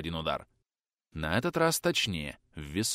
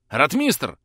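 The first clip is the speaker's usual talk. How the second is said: louder urgent call of a name; 4 semitones higher, 6 dB louder than usual. Acted. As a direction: call out into the dark. Calling out in the dark.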